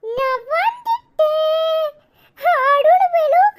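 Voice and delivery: breathless joy breaking into tears; tearful excitement. Real, not acted. Boy rushes in to see his mother and new baby, tearful and laughing.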